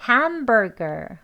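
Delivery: "hamburger" slowly, strong HAM, weak ending; main stress on HAM. Shown as a demonstration. Teacher modelling a tricky word, "hamburger" slow and front-stressed. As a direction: draw out HAM in "hamburger", then ease off. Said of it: "그 다음엔 약하게".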